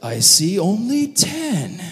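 hammy interrogator counting heads; suspicious questioning. Retold or imitated. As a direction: stretch it out with mock suspicion. Joseph questions their count.

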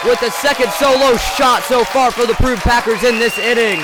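loud excited shout; home run call. Real, not acted. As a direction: yell it as the ball leaves the park. Live home run call on radio.

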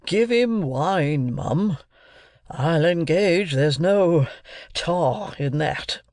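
slow, pointed and a touch sharp. A narrator's reading. Pumblechook overruling the sister about the brandy, slow and sharp. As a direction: lay it down sharply, a hint of pomp. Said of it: "said sharply".

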